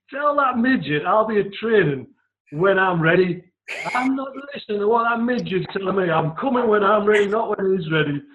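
defiant bellow to the whole hotel; retold shout. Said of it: "Top of his voice".

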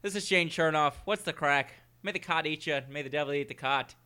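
put-on hammy podcast intro in an Irish accent. Podcast host introducing the co-hosts, mock Irish accent. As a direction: put on a light Irish brogue. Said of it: "I'm gonna put on my Irish accent".

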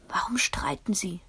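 put-on hushed child's whisper, no voice. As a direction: breathe it so the parents won't hear. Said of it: "flüsterte ich". (geflüstert, tonlos)

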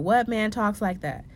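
incredulous. Real, not acted. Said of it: "Who talks like that?".

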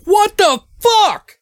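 high, slow, drawn-out dazed cry; stunned after the car flips; a woman crawling from a wreck, dazed; dazed crash victim. Retold or imitated. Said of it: "she's like".

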